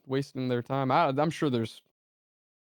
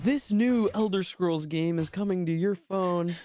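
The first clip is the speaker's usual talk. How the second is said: slow, higher-pitched mock announcement; imitated game presenter; 5 semitones higher, slower than usual. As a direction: lightly put on a stage presenter's reveal. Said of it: "They're like".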